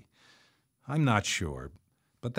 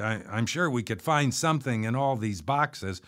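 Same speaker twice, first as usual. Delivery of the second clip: stammering; 2 semitones higher than usual. Retold or imitated. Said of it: "I stammered".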